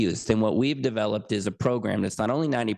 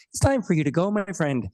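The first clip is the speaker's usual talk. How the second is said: put-on higher, playful Irish accent on a hitman line; a lightly done Irish hitman, menace played for laughs; 7 semitones higher than usual. Guest jokingly plays an Irish hitman to Roy, in a higher Irish accent. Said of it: "I would use an Irish accent".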